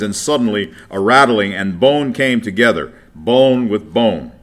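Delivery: solemn public reading of scripture. Acted. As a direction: read the passage out to the congregation. Reads Ezekiel aloud.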